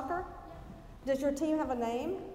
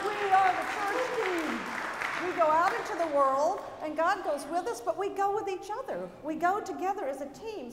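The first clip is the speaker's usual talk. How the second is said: put-on rousing children's talk; 2 semitones higher than usual. Leading children in church.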